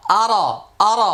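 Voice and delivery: আর with a thick, full R; careful Quranic আর, thick on the R; heavy R. Shown as a demonstration. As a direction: make the R in আর heavy and rounded. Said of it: "রটা মোটা হবে".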